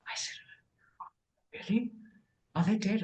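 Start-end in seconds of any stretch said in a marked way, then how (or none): 1.5-3.0 mock surprise. Retold shocked reply.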